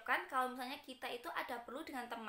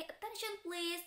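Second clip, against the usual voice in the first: slow, drawn-out Attention please; teacher calling for attention; slow classroom call; 5 semitones higher, slower than usual. Shown as a demonstration. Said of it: "biasanya bilang gini".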